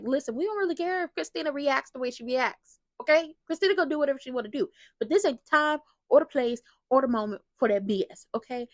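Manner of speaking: hammed-up fed-up telling-off; acting upset. Recapper exaggerating her reply about Christina, acting upset. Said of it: "getting upset like I just did".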